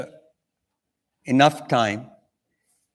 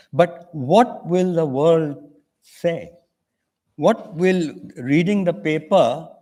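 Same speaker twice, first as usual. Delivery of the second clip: impassioned plea; 4 semitones higher than usual. Retold or imitated. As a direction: press him harder with each question. Pleading with the official while leaving.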